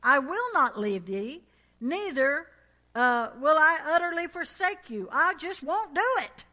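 loud, insistent, every word pushed; emphatic paraphrase. Shown as a demonstration. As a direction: say it like a promise you refuse to break. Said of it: "you would say it something like this".

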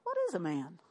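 low, soft puzzled muttering of angels; mock the angels' confusion softly; a hushed, baffled question. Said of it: "they're all talking up there going".

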